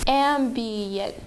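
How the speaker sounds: AMBIENCE stretched into three separate beats; bounced syllable by syllable. Shown as a demonstration. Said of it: "I'm going to bounce them".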